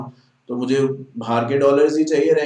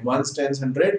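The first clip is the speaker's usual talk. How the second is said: slow counting demo; much slower than usual. Shown as a demonstration. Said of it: "मतलब वो ऐसे समझते हैं".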